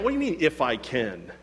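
challenging. Retold or imitated. Jesus answering a doubter's plea, incredulous. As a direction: echo the doubt back in disbelief. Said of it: "he's challenging my mentality".

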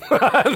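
short high laugh, loud; a real amused laugh; burst of laughter. Real, not acted. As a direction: laugh out at the joke. Laughs at his own joke.

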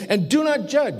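preacher voicing Jesus' command; firm command. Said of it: "And he's saying".

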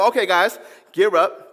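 lightly voiced commander rallying troops; a hint of a leader calling his men; Joshua voice. Joshua telling his men to gear up, lightly voiced. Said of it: "That's my Joshua voice".

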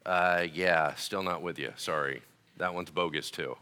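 low, quiet, unmoved rejection; deadpan dismissal. Acted. Pastor brushing off an imagined objector, deadpan and quiet. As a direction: turn it down softly in a low monotone.

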